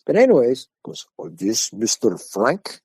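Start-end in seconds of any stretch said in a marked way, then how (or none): 1.2-2.8 slow, drawn-out caller asking for someone; caller checking a name. Retold or imitated. Caller phones the teller at home, slow inquiry. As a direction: stretch the name into a careful question.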